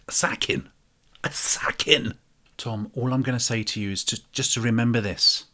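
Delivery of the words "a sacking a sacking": hissed whispered sacking; menacing whisper to the new boss; conspiratorial whispered threat. Acted.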